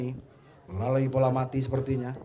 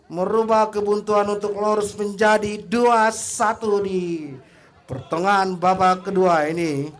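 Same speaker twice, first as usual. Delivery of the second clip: calming excitement; 6 semitones higher, 5 dB louder than usual. Real, not acted. Settling down after the goal.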